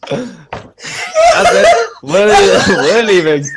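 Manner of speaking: laughing exit. Real, not acted. Players flee laughing.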